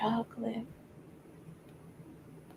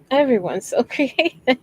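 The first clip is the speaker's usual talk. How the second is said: TikTok lady impression; 4 semitones higher, 3 dB louder than usual. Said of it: "She'll look at all the food stuff and be like".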